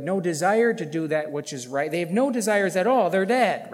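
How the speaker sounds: loud, driving preacher's voice; emphatic preaching. Real, not acted. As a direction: hammer the repeated point forcefully. Preaches at full force.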